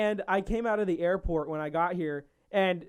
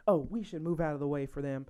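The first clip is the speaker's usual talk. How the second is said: put-on southern accent; 3 semitones lower, 3 dB quieter than usual. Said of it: "I'm talking in a southern accent".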